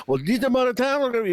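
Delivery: high, mumbled imitation of a blues lyric; imitating a rock singer's mumble. Host mimics the garbled opening of a rock song, mumbled and high. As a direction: slur the line like a rock singer, pitched high. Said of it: "What the fuck did he say?".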